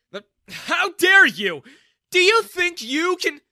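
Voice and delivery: put-on humiliated dad blowing up at the young man; outraged. A narrator's reading. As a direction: explode with wounded pride. Daniel outraged at the insult.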